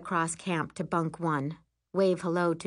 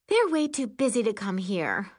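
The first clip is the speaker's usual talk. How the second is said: huffy; 4 semitones higher than usual. Acted. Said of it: "she huffs".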